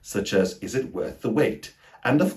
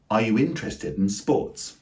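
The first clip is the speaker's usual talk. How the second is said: INTERESTED in three syllables, IN-tres-ted; first-syllable stress; 3 semitones higher than usual. Shown as a demonstration. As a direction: hit IN of interested, squeeze the rest. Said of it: "primary stress is on the first syllable".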